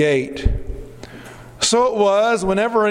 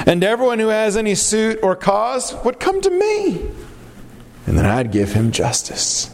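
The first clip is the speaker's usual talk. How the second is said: cunning. Acted. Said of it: "him cunningly sigh".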